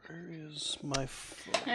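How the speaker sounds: whispering. Real, not acted. Side remark during play.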